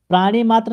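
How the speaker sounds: प्राणी मात्र with a long final "ee" in प्राणी; wrong long vowel. Shown as a demonstration. Teacher shows the wrong word, demonstrating an error. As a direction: lengthen the end of प्राणी. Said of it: "प्राणी आपका गलत शब्द".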